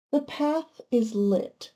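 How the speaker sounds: slow, measured reading of The path is lit; solemn card-reading voice. Acted. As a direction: read the card's words slowly, like an oracle. Reads the card's message.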